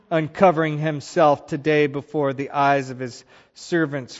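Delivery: mock-grand sarcasm, opening loud; sarcastic. Wife confronting David after the celebrations, sarcastic. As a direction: read it as a snide, sarcastic jab. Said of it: "this is sarcasm here".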